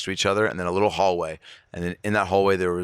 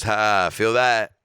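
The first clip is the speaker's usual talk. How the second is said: Jack Nicholson; 3 semitones higher, 4 dB louder, much slower than usual. Retold or imitated. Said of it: "and he goes".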